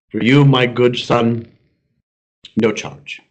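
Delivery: slow, gentle and low; a hint of a benevolent God; slow kindly God. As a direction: bestow it like a kind father. God offers free nose.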